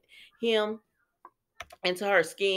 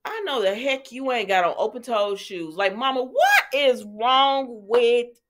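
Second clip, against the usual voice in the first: incredulous scold, slowing and louder on mama; scolding disbelief; 4 semitones higher, 4 dB louder than usual. Pretend. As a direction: scold her like an outraged friend. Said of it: "I said".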